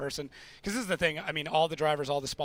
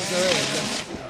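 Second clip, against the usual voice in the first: Pennzoil in a mock Norwegian accent; 7 dB louder than usual. Shown as a demonstration. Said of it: "that's more like Norwegian".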